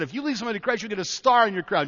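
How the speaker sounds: a hint of a patient mom explaining to her little son; mother teaching a boy. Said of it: "She said".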